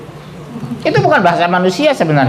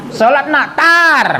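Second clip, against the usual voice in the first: high sharp burst ending even higher on tar; mock-scolding mother, higher and sharp; nagging mother yell; 9 semitones higher, much slower than usual. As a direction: snap it at the kid like a firecracker. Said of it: "Kayak petasan".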